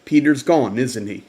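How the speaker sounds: put-on Ma Rose, South African accent. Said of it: "she said in that South African accent".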